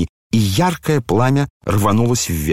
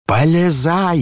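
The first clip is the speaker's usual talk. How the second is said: roaring; 8 semitones higher, slower than usual. A narrator's reading. Ferdyshchenko roars at Ganya to climb into the fire. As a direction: roar it at him. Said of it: "заревел Фердыщенко".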